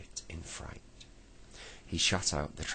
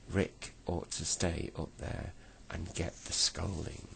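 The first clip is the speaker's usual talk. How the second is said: gloomy. Acted. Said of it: "said Moonface gloomily".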